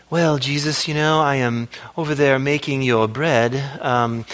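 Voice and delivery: lightly voiced, sugary self-pity; passive-aggressive Martha. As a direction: put on a hint of a long-suffering host. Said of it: "I don't know why I'm talking like that".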